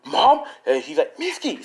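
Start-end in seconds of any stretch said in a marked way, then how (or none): 0.0-0.5 high, loud mock cry; high alarmed call; retold scream. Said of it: "they start hearing screaming". 1.2-1.6 high-pitched call of alarm; mock scream without much volume; retold alarmed cry. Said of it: "they start hearing screaming".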